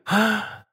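soft high gasp; small startled cry. A narrator's reading. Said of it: "вскрикнула госпожа Бонасье". (тихий испуганный вскрик)

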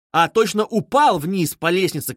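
plain reading voice

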